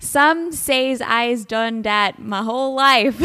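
slow, hammed-up Southside Chicago accent. Podcast host attempting the accents from a listener's email, Southside Chicago accent. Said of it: "I can do a Southside Chicago accent".

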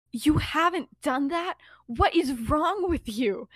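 drawn-out mock incredulity; acted disbelief. Emmeline questioning Remus about flying, mock incredulous. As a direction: challenge them, astonished, stretching the words.

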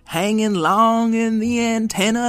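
put-on a kindly old machine giving advice; wise old robot. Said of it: "old man".

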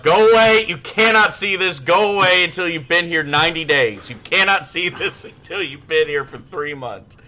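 loud, high panicked yell to shoo a coworker away; yelling at a new coworker to go away. Retold or imitated. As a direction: shout them off, fading a little by the end. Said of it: "I started yelling".

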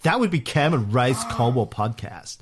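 bad Valley Girl accent, lightly done; reading the review in a mock Valley Girl accent; half-hearted Valley Girl accent. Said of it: "bad Valley Girl accent".

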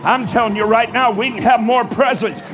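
halftime pep speech. Real, not acted. Preacher rallies congregation, building.

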